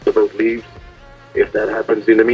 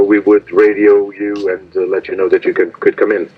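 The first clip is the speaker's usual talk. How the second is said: marine radio. Real, not acted.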